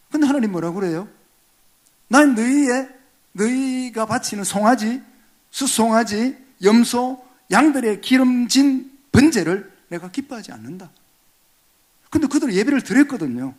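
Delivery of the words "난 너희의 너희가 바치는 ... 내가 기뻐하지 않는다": voicing God. God speaking in sermon.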